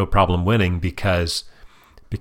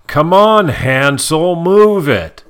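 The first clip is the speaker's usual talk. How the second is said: higher, louder mock yell; 8 semitones higher, 5 dB louder, much slower than usual. Mom retelling the woman yelling at the man, louder. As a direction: bark it at him playfully. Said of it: "What she actually yelled was".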